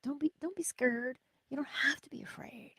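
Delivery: soft reassuring whisper. Real, not acted. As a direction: soothe them in a whisper.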